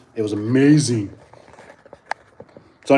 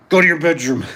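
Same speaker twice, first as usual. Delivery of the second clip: laughing mock order; 6 semitones higher, 4 dB louder than usual. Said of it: "you gotta be like".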